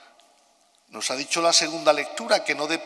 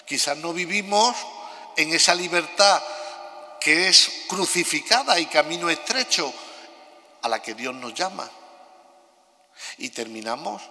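cathedral echo. Real, not acted. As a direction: voice ringing in a big stone church. Homily recorded in a large church.

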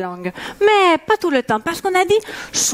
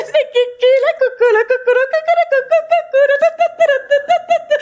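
mock Portuguese; 11 semitones higher, 4 dB louder, faster than usual. Mock Brazilian parody.

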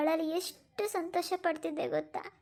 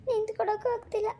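crying, faint with grief; anguished, tearful complaint; tearful breakdown; 3 semitones higher than usual. Acted. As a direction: cry it out as if about to collapse. Mother collapsing from grief.

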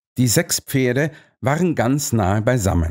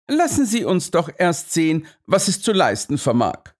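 unshakeable calm; 6 semitones higher than usual. A narrator's reading. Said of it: "sagte mein Freund mit unerschütterlicher Ruhe".

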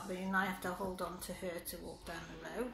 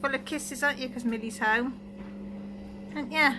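talking to a dog; 6 semitones higher, 10 dB louder than usual. Real, not acted. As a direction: sweet-talk the dog. Cooing to the dogs.

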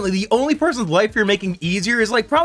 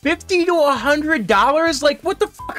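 incredulous; 5 semitones higher than usual. Real, not acted. Incredulous rant at price.

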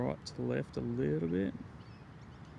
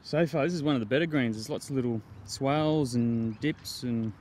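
heavy breathing. Real, not acted. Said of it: "sorry for the heavy breathing".

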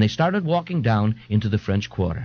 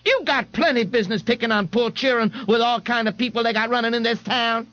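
high, fretful mother's scolding; Mrs Riley scolding; 8 semitones higher than usual. Acted. Mrs Riley scolds the policeman for picking on her boy, high and fretful. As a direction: nag the policeman like a fussing mama.

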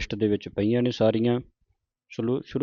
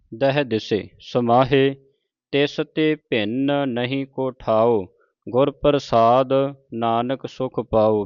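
slow, measured verse reading; scripture recitation; slower than usual. Shown as a demonstration. Teacher reciting Gurbani to the congregation, slow and measured. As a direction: draw out each sacred word.

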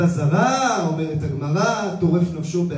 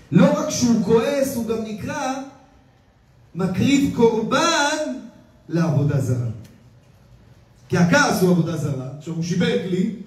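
higher, intense sermon voice, driving each phrase home; fervent preaching; 5 semitones higher than usual. Acted. Rabbi warns his congregation about anger, fervent preaching. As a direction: preach it like a warning from the pulpit.

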